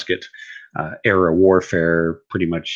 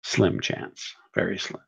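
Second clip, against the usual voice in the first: muttered aside; 7 dB quieter than usual. Real, not acted. Repeats his odds to himself.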